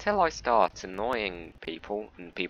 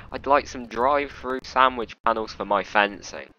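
loud, higher posh-customer request; mock customer; 3 semitones higher, 6 dB louder than usual. Driver imagines a drive-through customer, loud and higher. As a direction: order it like a fussy customer. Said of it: "voicing a silly customer".

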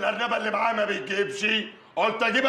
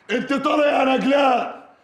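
angry declaration; 4 semitones higher, 3 dB louder than usual. Acted. Furious divorce declaration.

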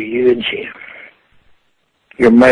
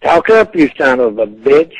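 angry yell. Real, not acted. Furious old man yelling at a prank caller down the phone.

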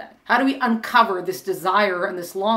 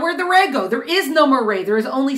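higher, hammed-up puzzled question; mock bewilderment; 4 semitones higher than usual. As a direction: ask it like a confused little ray. Mock puzzled ray speaking.

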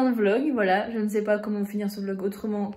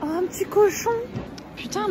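high excited exclamation; excited squeal; 10 semitones higher than usual. Real, not acted. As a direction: squeal at the piglet. Spots a pig, exclaims.

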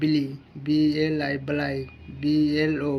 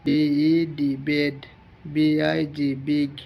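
steady, deliberate classroom reading; phonics example drill. Shown as a demonstration. Teacher giving students example words in a drill. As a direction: spell each word, then say it, one by one. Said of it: "vowel এর আগে একটি ও পরে একটি consonant বসিয়ে উচ্চারণ".

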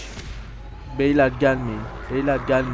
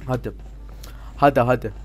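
ordinary delivery

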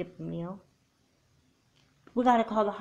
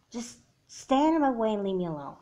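annoyed order; 4 semitones higher, 5 dB louder than usual. Acted. Sister repeats order, louder.

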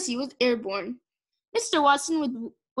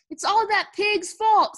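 higher, slow, emphatic blame; indignant accusation; 7 semitones higher, 4 dB louder, slower than usual. A narrator's reading. Eugenia blaming Mercy to the officer, indignant. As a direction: hammer out the accusation slowly.

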